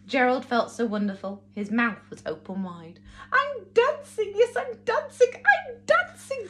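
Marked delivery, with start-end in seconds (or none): 3.3-6.5 joyful cry. Acted. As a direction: cry it out in pure delight. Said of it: "Gerald cried".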